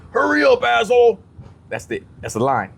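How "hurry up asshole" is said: high, loud heckle from the back; impatient yell. Acted. Actor's one line from back of the prison line, impatient yell. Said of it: "someone from the back of the line yells".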